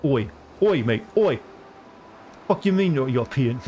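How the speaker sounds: a light put-on British accent, mocking a Brit; hammed-up British accent, mildly outraged. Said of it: "They're like".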